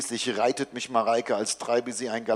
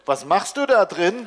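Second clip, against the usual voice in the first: put-on higher, louder kid's question; curious child; 5 semitones higher, 5 dB louder than usual. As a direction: ask like a nosy child at the door. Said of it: "Schnuffelinchens Stimme".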